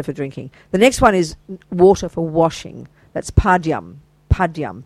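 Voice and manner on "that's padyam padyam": padyam said as PAD-yam, stress on PAD; Sanskrit term. Shown as a demonstration. Teacher names the washing water offering, clear pronunciation. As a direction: sound out padyam for students. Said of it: "P A D Y A M".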